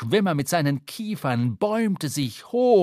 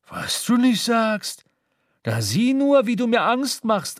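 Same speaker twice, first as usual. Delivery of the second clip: higher, louder sneering mockery; sneering captain, pitched up and louder; mocking scorn; 7 semitones higher, 3 dB louder than usual. A narrator's reading. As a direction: laugh off the threat with contempt. Captain mocks the threat.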